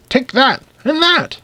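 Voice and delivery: high, punchy jabbing exclamations; mock fencing cries. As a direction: punch each phrase like a sword thrust. The speaker stabs the air.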